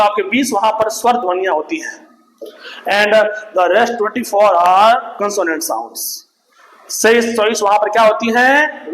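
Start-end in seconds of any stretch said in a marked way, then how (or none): 2.9-6.0 slow, measured English for note-taking; slow dictation. Real, not acted. Teacher giving students the count of consonant sounds, slow dictation. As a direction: spell it out slowly, word by word.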